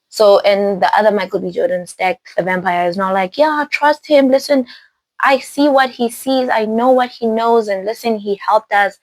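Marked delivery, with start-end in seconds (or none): 3.4-9.0 higher-pitched, insistent pleading; coaxing, raised-voice plea to be believed; urging persuasion. Retold or imitated. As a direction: act out talking someone round. Voices turned vampire pleading.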